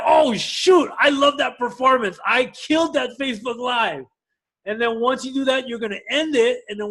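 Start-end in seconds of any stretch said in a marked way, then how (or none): 0.0-4.0 mock self-praise. Pretends to praise own live video.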